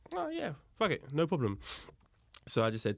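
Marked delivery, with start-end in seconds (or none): 0.1-1.6 high-pitched, breezy "sure, why not"; carefree agreement. Retold or imitated. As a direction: wave it off in a raised voice. Casual reply to friend on phone.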